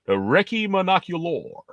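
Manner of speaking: British word, American accent. Shown as a demonstration. Correcting the friend by saying Recce in a put-on American accent. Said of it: "say it the British way, but an American accent".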